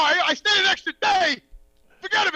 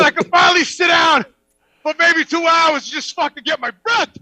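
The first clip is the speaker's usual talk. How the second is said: exasperated yell; 5 dB louder than usual. Retold or imitated. Exhausted retelling after starving.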